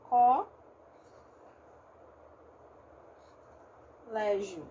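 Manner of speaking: co- légio with a wide open O, split into syllables. Shown as a demonstration. Teacher showing the open-O colégio to the class. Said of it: "um O mais aberto aqui".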